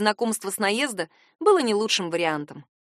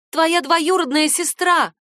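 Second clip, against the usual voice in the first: slow, gritted-teeth reply, higher and louder; through gritted teeth; 7 semitones higher, 5 dB louder, slower than usual. Acted. Narrator tells her cousin who she is through gritted teeth. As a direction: spell it out through clenched teeth. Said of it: "стиснув зубы".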